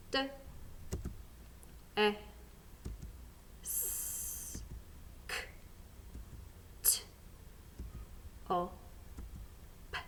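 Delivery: D, E, S, K, T, O, P as isolated sounds, long gaps; sounding out. Shown as a demonstration. Teacher starts the next word, sounding it out. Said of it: "sounding it out".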